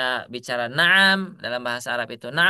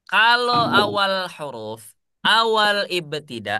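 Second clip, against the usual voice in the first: slow emphasis; 4 semitones higher, 4 dB louder, slower than usual. Shown as a demonstration.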